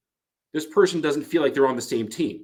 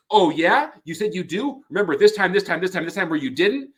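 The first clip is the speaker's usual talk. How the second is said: louder, pushier accusing voice; escalating criticism; 5 semitones higher, 4 dB louder than usual. Shown as a demonstration. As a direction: pile on the evidence, getting louder. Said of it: "how loudly they're criticizing".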